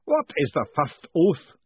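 slow, booming ritual master. A narrator's reading. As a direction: boom it out like a grand master of ceremonies. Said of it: "the booming voice demanded again".

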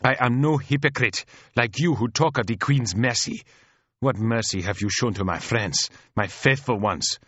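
high, impassioned accusation; squealed outrage. Acted. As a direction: explode at the sister, building to a bitter cry. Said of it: "let out a squeal like a steam whistle".

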